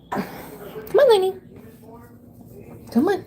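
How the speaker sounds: very high coaxing call; coaxing pet. Real, not acted. To her pet Lenny, high coaxing call. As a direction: coax the pet out in a high sing-song.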